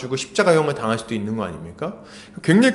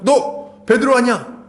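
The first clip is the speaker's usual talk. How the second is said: higher, drawn-out mock yell of recognition; sudden accusing shout; 7 semitones higher, 4 dB louder, slower than usual. Servant girl points at Peter, imitated sudden shout. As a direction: burst out as if pointing at the culprit. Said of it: "갑자기 탁 소리 지르면서 탁 손가락질을 했겠죠".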